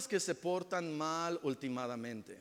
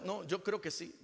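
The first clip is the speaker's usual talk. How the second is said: stubborn; 6 dB quieter than usual. Retold or imitated. Grudge-holder answers stubbornly.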